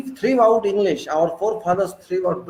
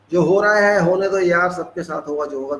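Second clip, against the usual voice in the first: rattled off fast, couldn't-care-less; careless shrug; much faster than usual. Retold or imitated. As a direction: toss it off quickly like it doesn't matter. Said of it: "we call something like that".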